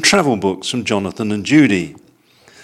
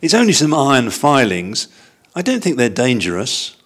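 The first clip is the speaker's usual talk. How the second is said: put-on young bear voice; 3 semitones higher than usual. Paddington's voice in story.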